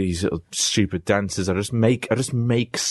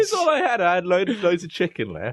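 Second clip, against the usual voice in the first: put-on voice; 9 semitones higher than usual. Replying in a put-on voice.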